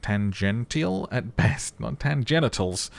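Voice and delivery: a hint of a pedantic lieutenant, slowed; lightly voiced lieutenant, pausing slowly over each word; lieutenant's correction. Reading the lieutenant's dry correction.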